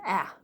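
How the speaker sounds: "ah" as the lone vowel of tack; short A sound. Shown as a demonstration. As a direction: isolate "ah" as a short A. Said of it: "That's a short A sound".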